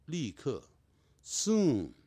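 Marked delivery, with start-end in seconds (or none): 1.2-1.9 "soon" high, with a long falling "u"; model word reading. Shown as a demonstration. Teacher reading the words over for students, model pronunciation. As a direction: stretch "soon" clearly for repeating. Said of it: "再把这几个字念一下".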